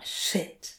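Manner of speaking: whispered under breath; muttered curse. Acted. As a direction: hiss it out quietly. Crowley curses under his breath.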